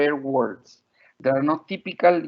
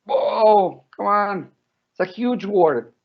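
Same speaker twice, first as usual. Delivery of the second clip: higher, mock-astonished toddler reaction; amazed small child; 5 semitones higher, slower than usual. Mother imitating her small daughter's reaction to a long word, mock amazement. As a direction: imitate a little one floored by a huge word. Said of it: "So for her, it was like".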